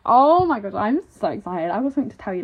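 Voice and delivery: bursting to share a secret; excited squeal. Shown as a demonstration. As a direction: squeal it out to a friend. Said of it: "would squeal".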